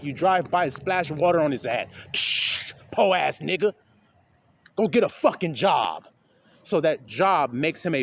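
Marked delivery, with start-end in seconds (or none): 2.1-6.1 scoffing, dismissive jeer; a driver mocking a man walking in the cold; contemptuous sneer. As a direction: sneer at him as you drive past. Driver mocks homeless man.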